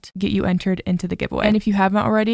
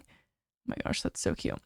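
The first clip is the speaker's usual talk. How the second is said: swooning whisper; 12 dB quieter than usual. Real, not acted. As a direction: melt over it, barely voicing the words. Swooning over letters to family.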